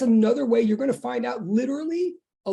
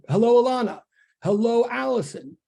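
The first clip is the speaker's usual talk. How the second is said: higher-pitched roll of hellos, each falling away; calling out greetings; 3 semitones higher, 4 dB louder than usual. Real, not acted. Teacher greeting students as they come into online class, calling out. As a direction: greet each one by name in a raised, lilting call.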